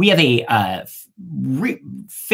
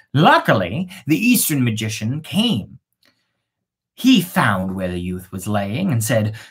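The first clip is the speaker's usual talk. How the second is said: measured storybook reading voice; story narration. A narrator's reading. Narrator telling the witch maiden tale, storybook reading. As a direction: read it like a fairy tale to listeners. Reads a fairy tale aloud.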